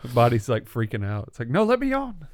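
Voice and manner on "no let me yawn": high squeaky inner voice; mock body voice. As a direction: voice the body pleading.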